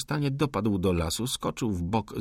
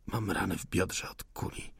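softer, tired reply; weak voice of a wounded soldier; faint, wounded; 2 semitones lower, 7 dB quieter than usual. Acted. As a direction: answer with little strength left. Wounded insurgent answers.

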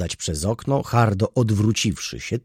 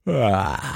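yawn. A narrator's reading. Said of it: "ziewnął".

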